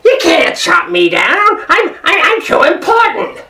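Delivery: indignant sour tree voice, climbing high; sour, self-important character voice; sour cherry tree. A narrator's reading. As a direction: protest like an offended, cranky tree. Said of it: "I'm a sour cherry tree".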